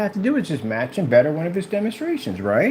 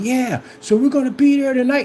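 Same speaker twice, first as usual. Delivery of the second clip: mock promise; 9 semitones higher, 3 dB louder than usual. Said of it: "it's like".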